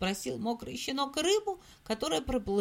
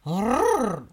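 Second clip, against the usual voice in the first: growling dog voice; 2 semitones lower, 4 dB louder than usual. Acted. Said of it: "и зарычал".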